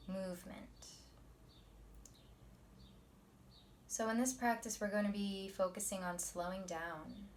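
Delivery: soft, measured meditation teacher voice; quiet, unhurried guidance; guided meditation. Acted. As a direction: ease them into calm, leaving long pauses.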